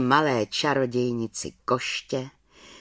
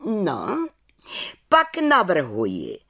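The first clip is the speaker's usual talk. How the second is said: head witch calls out; 5 semitones higher, slower than usual. Acted. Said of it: "zvolala vrchní čarodějnice".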